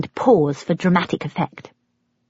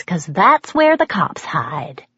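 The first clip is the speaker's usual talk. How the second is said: conspiratorial whisper; slower than usual. Acted. Mother's secret speeding advice.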